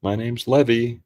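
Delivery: lightly put-on hypnotic narrator, unhurried. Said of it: "he's actually calling in right now".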